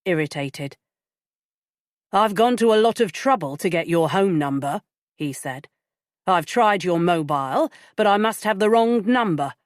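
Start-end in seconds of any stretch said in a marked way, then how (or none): 2.1-4.8 sharp, irritated. Acted. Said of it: "his voice was sharp, irritated". 6.3-9.5 sharp, irritated. Acted. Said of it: "his voice was sharp, irritated".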